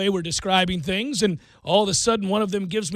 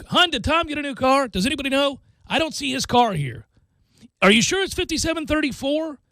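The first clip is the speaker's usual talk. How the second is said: flustered lost driver; 4 semitones higher than usual. Retold or imitated. Acting out lost Brady in car.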